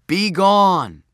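loud, high command. A narrator's reading. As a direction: banish it with force. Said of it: "said Joshua".

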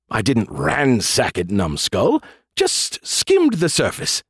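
slow, drawn-out condescension; Skippy. Acted. AI correcting the general, condescending. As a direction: correct him as if he were dim.

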